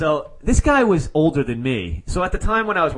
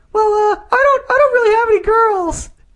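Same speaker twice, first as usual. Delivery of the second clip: very high-pitched, squeaky put-on voice. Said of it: "This is how he spoke".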